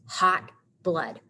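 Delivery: "hot blood" as two weighted beats; two stresses. Shown as a demonstration. Teacher showing two bolds in a row, double stress on "hot blood". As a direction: give "hot" and "blood" each full stress. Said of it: "two bolds in a row".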